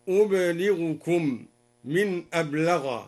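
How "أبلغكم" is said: أبلغكم said slowly as "ublighukum"; silent ba, light lam. Shown as a demonstration. Teacher shows al-Duri's word, أبلغكم slowly as "ublighukum". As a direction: stop the b of أبلغكم vowelless, single l. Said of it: "بإسكان الباء وتخفيف اللام هكذا".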